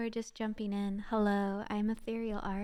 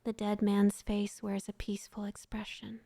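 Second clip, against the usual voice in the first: whispered story narration. Acted. Streamer reads a sad story to her chat, whispered narration. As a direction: breathe the tale out gently to listeners.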